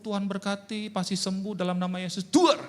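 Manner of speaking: high-pitched mock pastor blessing, exploding at the end; hammed-up high prayer with explosive finish; showy pastor's prayer. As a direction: parody a slick preacher, building to a loud bang. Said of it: "Pendeta kan public speaking-nya pandai".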